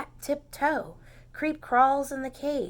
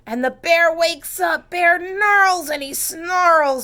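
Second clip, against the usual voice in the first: loud, higher storytelling; rising drama; 7 semitones higher, 11 dB louder than usual. A narrator's reading. Reader loudly tells the children the bear wakes.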